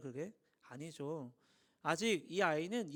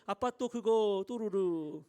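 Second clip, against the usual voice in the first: mock teary plea; 3 dB louder, much slower than usual. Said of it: "눈물 뚜루룩 흘리면서".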